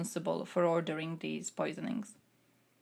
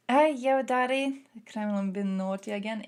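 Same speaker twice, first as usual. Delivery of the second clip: mock tattling child; 2 semitones higher than usual.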